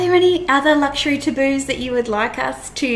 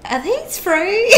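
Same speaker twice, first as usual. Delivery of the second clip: higher, slow entitled customer; rude customer; 10 semitones higher, slower than usual. Pretend. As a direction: play a pushy customer. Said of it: "I do wanna see some bad customer behaviour".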